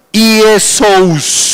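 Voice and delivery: "Iesous" drawn out with a long final s; Greek pronunciation demo. Shown as a demonstration. Preacher reading the Greek name to the congregation, "Iesous" as careful demonstration. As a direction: sound out "Iesous" carefully, holding the ending. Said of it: "abajo está cómo se pronuncia".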